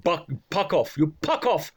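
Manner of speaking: "puck off", each F turned into P. Retold or imitated. Recalling owner who couldn't say Fs, says "puck off". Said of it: "couldn't say his Fs".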